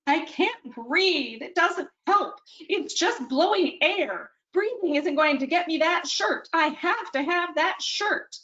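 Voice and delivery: high, slow, acted sobbing plea; crying harder. Daughter melting down in the store, refusing to breathe, crying. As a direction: let the words break as the crying takes over. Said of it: "She begins to cry harder".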